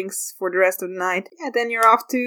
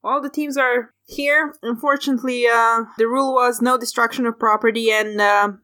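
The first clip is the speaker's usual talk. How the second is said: announcer voice. Acted. GM voicing host announcing.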